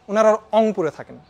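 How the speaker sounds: "অংপুরে" with the r dropped for o; Rangpur r swap. Shown as a demonstration. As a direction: say "অংপুরে", no r at the start. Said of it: "র এর জায়গায় অ".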